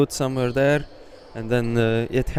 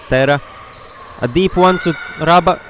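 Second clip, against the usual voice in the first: excited call; 5 semitones higher, 6 dB louder than usual. Real, not acted. Long throw in live commentary.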